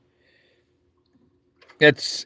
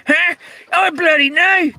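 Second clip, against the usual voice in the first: squeaky high exclaim; mock exclaim; 12 semitones higher than usual. Agreeing with a chat comment, squeaky high exclaim.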